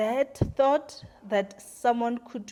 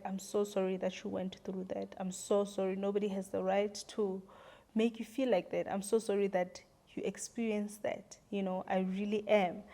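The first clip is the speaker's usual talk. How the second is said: softer, a gently retold comfort; soft sincere apology; 6 dB quieter than usual. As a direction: quote him softly, like consoling her. Boyfriend comforting her, retold.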